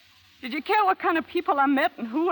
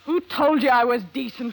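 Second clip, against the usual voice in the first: louder, hitting "who" hard; bitter outburst; 2 semitones lower, 6 dB louder than usual. Acted. Anna throws Matt's word "decent" back at him, bitter outburst. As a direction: fling the question back with scorn.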